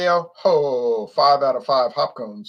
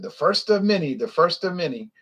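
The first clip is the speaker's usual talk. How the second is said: toasting guy; 5 semitones higher than usual. Retold or imitated. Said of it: "and the guy said".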